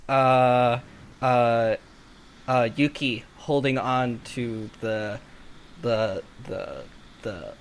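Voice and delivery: ordinary talk, nothing marked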